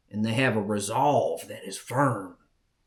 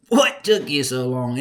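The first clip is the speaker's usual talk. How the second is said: louder uncle teasing; louder repeat; 6 dB louder than usual. Retold or imitated. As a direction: ask it again, pushing harder. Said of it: "He said".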